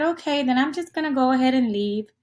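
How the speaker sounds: mouse paraphrase. Pretend. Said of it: "the mouse said".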